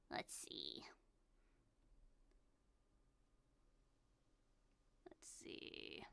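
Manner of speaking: whispered to herself; whispering. Real, not acted. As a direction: murmur it under your breath. Musing to herself.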